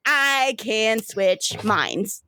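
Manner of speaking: drawn out, very slow reveal; slow proud announcement. Acted. River revealing her power to her brother, slowly savoured. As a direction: savour each word slowly. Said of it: "She goes".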